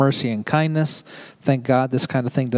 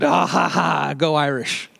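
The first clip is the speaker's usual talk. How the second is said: hearty put-on triumphant laugh into a cheer; gleeful mock cheer; slower than usual. Father recalling his red-haired newborn, playfully gleeful cheer. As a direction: crow it with a playful ha-ha-ha.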